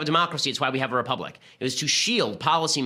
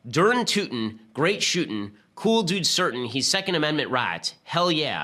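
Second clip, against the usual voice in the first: mock Southern accent; 2 semitones higher, slower than usual. Mocking Dawkins's tweet to listeners, in a hammed-up Southern accent. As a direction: read the tweet like a mock Southern good ol' boy. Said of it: "'cause it's supposed to be in a Southern accent".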